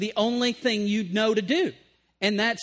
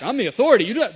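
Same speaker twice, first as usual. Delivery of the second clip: stern husband; 8 dB louder, much faster than usual. Acted. Acted marital quarrel, husband.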